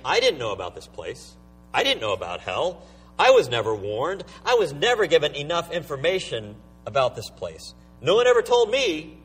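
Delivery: mildly aggrieved excuse-making; complaining. Acted. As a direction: plead ignorance as a mild complaint. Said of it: "See the complaint there?".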